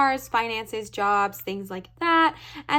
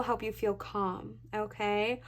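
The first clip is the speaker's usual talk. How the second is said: words stretched by a yawn; 6 dB quieter, slower than usual. Real, not acted. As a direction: talk through a big yawn. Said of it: "now I'm yawning".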